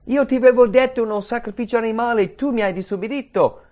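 high, loud, indignant rebuke; mock angry God. Preacher imagining God scolding Cain, loud and indignant. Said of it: "Aveva ogni diritto di punire Caino".

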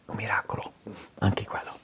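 hushed whisper of awe; whispered aside to the congregation. Real, not acted. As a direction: lean in and breathe it. Awed aside after the miracle.

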